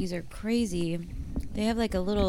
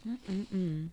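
talking while chewing; mouth full; 7 dB quieter than usual. Real, not acted. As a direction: speak through a mouthful of cookie. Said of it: "chewing on the podcast".

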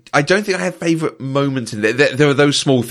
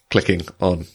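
slow, halting, lower-pitched stalling; talking slowly; 3 semitones lower than usual. Real, not acted. Narrating his own Wikipedia search to co-hosts, talking slowly. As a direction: drag the words out to buy time. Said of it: "talking slowly whilst".

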